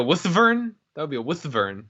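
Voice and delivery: "wuthvern" with a "th" in the middle; mock Middle English pronunciation. Shown as a demonstration. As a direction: say "wuthvern" as WUTH-vern. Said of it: "Is this a Middle English pronunciation".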